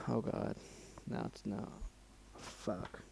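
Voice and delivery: barely voiced, near tears; real choking up. Real, not acted. Reader moved by the story, near-silent choked-up words. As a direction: hold back real tears. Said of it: "gonna get a little teared-eyed".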